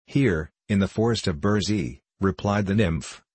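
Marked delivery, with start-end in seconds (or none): 0.1-2.0 a touch of boldness, firmly stated; bold. Acted. Nymph answers the woodsman, lightly bold.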